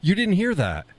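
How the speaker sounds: pitched high in real disbelief; can't believe nobody heard it. Real, not acted. Nobody heard his chicken call.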